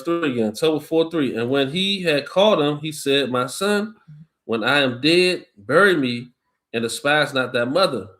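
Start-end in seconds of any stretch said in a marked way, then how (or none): 3.3-8.1 slow, measured Bible reading voice; scripture reading. Acted. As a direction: read it out like a preacher at the lectern. Reads Tobit aloud to co-host.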